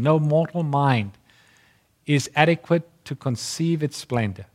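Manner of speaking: lifted, measured reading of scripture; solemn reading. Acted. Preacher reads the prophecy to his congregation, solemn and lifted. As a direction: read it out like holy prophecy to the congregation.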